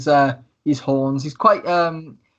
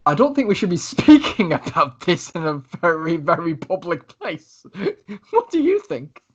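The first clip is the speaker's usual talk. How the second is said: theatrical, conspicuous confiding; Lucius, loud indiscretion. Acted. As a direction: stretch it out showily, with a laugh before the question. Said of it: "He is being quite loud".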